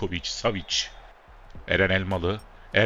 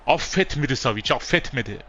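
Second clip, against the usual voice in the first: goal call; 7 semitones higher, 3 dB louder than usual. Real, not acted. Commentator calling Savic's goal, excited goal shout.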